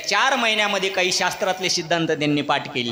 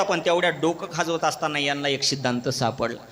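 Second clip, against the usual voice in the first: ordinary talk, nothing marked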